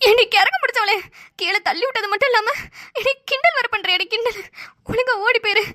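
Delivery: high-pitched furious rebuke; angry scolding. Acted. Sister-in-law scolds the teasing girl angrily.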